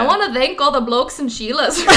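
put-on shaky amateur Australian accent; hybrid, not quite Australian accent; attempted Australian accent. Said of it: "try to do an Australian accent".

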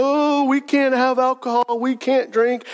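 slow, mocking churchy whine; mock pious whine. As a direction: sneer at the killjoy version of faith. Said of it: "sit here and go".

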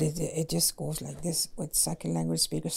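soft whispered aside; whispering. Real, not acted. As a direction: whisper it to yourself. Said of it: "whispered aside".

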